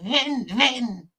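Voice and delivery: hammed-up German accent pressing the question; German lady. Copying the German carer questioning the little girl, mock accent. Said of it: "She's like".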